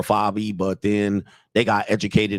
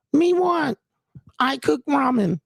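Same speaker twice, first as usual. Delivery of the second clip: put-on much higher, childlike broken-English begging; babyish girlfriend; slower than usual. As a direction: beg like a toddler for treats. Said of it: "begging for shit and pointing".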